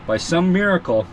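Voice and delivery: talking around a flashlight in mouth; words muffled by a flashlight held in mouth. Real, not acted. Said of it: "I got the flashlight in my mouth".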